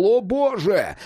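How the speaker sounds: high cry of horror; yelling. A narrator's reading. Cat grabbed by the monster's hand, yelling. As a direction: cry out high in sudden terror. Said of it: "кот заорал".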